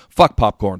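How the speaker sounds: loud, disgusted shout; loud outburst. Real, not acted. To his co-host, a popcorn rant peaking in a loud shout. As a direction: blurt it out loud like a final verdict. Ranting about hating popcorn.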